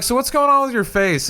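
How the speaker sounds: high-pitched mock-curious quote; blunt curious question. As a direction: ask it high, half-teasing. Retelling his blunt question to a guest.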